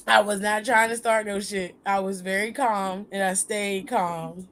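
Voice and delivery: calm. Real, not acted. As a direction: keep it low and even, unhurried. Insists on having stayed calm.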